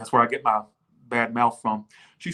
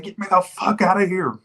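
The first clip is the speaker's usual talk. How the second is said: mild mock panic from mama; a touch of scared mama wanting out; imitating mama; 4 semitones higher, 4 dB louder than usual. Mama begging to leave the haunted house, mild mock panic. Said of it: "That's how my mama talks".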